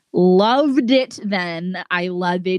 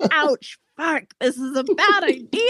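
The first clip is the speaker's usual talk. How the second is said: burning vampire; 7 semitones higher than usual. Pretend. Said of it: "That's my vampire impression".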